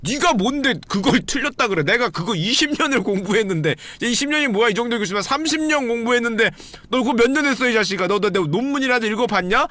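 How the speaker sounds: 삐진 교수를 흉내 내듯 목소리를 살짝 높여 따지기; 화난 교수님 흉내, 가볍게; mock indignant professor. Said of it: "이러고 흥분하신단 말이지". (흥분한 교수님 흉내)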